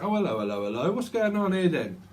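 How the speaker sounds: a hint of a mock British copper, rising up high at the end; mock London policeman; British bobby. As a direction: lightly play the old Bill catching someone out. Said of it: "the old Bill used to say that in Britain".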